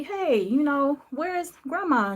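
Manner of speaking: high, slow and pleading. Retold or imitated. Pleading to reach grandmother.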